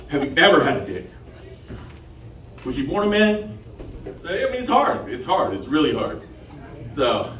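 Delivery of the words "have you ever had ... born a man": laughing through the question; can't keep a straight face; laughing while asking. Retold or imitated. Acted dating question, laughing.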